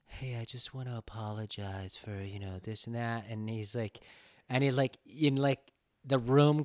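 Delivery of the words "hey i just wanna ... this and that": mock apology. Mocking apologetic white people.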